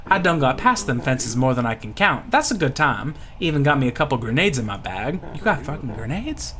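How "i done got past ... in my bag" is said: put-on Louisiana accent, easygoing brag; folksy Louisiana pirate. Pirate bragging about getting past fences, folksy Louisiana voice. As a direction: boast like a bayou rogue.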